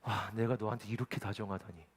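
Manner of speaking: imitating his quietly amazed self-talk; self-amazement. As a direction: marvel aloud at your own kindness. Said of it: "스스로 너무 놀라는 거예요".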